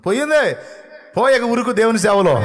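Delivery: laughing shout of triumph; triumphant laughing shout. Acted. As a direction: burst out in joyful victory. Triumphant sugar healed.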